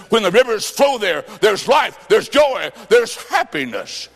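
rising, fervent scripture read. Real, not acted. Preacher proclaiming joy to the congregation, fervent. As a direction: ring out each blessing like a promise. Preacher reading verse with fervor.

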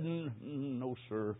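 low, soft, halting dying voice; imitated struggle to speak from a deathbed; hoarse whisper. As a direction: stammer it out weakly with long breaks. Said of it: "Then a hoarse whisper".

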